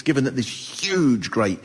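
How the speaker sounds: ordinary delivery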